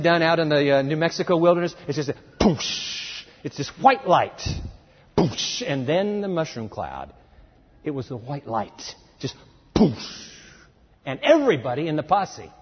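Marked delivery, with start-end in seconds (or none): 2.4-3.2 soft explosive whoosh; imitated blast. Imitating the bomb flash. 5.2-5.6 short explosive whoosh; whooshing burst; imitated blast. Imitating the bomb flash. 9.7-10.3 drawn-out airy blast noise; imitated blast. Imitating the bomb flash.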